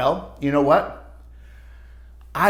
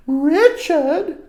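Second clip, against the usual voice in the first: raised, firm teacher call; teacher scolding; 13 semitones higher, 6 dB louder than usual. Acted. Teacher correcting Richard in class, firm call. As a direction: call the boy out by name.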